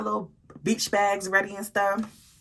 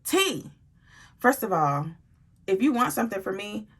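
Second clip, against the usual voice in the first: aggressive demand. Retold or imitated. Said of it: "She came out there aggressive as hell".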